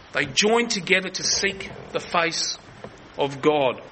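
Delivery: talking round something in the mouth; mouth full. Real, not acted. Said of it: "I've got something in my mouth".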